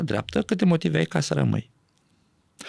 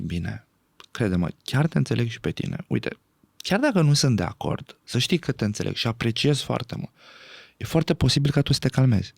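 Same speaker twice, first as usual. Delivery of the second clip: keeping the voice down. Shown as a demonstration. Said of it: "eu mențin vocea jos".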